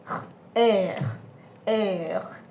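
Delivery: "air" with r rolled at the back of the throat; throaty uvular r in "air"; guttural French r. Shown as a demonstration. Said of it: "produced at the back of the throat".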